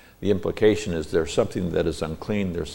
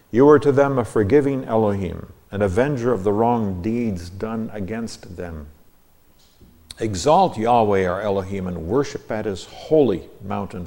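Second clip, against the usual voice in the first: raised, declaimed verse reading; scripture reading; 3 semitones higher, 4 dB louder than usual. Real, not acted. Teacher reads out his translation of the psalm, declaimed scripture reading. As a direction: read it out as formal Bible verse.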